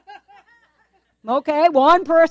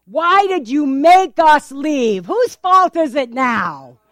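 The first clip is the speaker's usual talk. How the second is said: whining blame; 4 dB louder, slower than usual. Acted. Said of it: "they complained".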